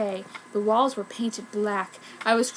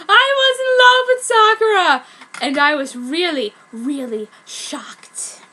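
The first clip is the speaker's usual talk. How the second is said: sadly; 4 semitones higher, 6 dB louder than usual. A narrator's reading. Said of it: "he said sadly".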